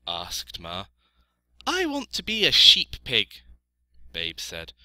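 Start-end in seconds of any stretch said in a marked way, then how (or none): 1.7-3.4 high, loud piglet voice; little piglet, earnest. A narrator's reading. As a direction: declare it as a small pig.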